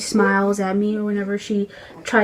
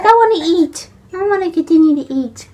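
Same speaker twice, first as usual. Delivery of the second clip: high, put-on baby voice; high whiny voice of the infant; voicing the baby; 9 semitones higher, 4 dB louder than usual. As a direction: speak for the hungry baby. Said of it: "She's like".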